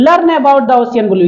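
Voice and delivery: slow, careful read-aloud for pupils. Shown as a demonstration. Teacher reading a poem line to children, slowly. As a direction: read each word out slowly and clearly. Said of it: "teacher reads poem line slowly".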